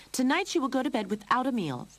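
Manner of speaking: high, loud punishing decree; angry. Acted. Mother cat declaring Lucy's punishment, angry. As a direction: lay down the punishment. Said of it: "Lorene said angrily".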